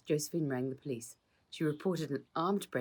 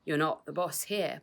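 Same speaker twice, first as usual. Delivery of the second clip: snarled; 3 semitones higher, 5 dB louder than usual. Acted. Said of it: "Patrick snarled".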